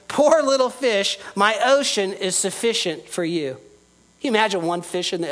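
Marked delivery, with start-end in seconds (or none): 0.1-3.6 tender fatherly ocean. Acted. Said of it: "the Father Pacific Ocean said to him".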